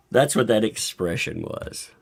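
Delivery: ordinary delivery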